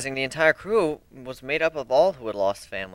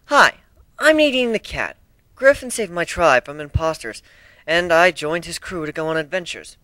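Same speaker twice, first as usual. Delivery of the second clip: higher, bright friendly intro; happy cat introducing herself; cheerful cat girl; 4 semitones higher, 4 dB louder than usual. Acted. Introducing herself to the ponies, cheerful and higher.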